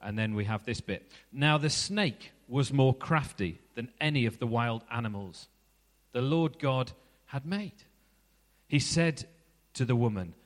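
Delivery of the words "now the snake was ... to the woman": measured, unhurried Bible reading; scripture reading. Acted. Preacher reading Genesis to the congregation, measured scripture reading. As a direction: read the passage to the congregation. Reads Genesis passage aloud.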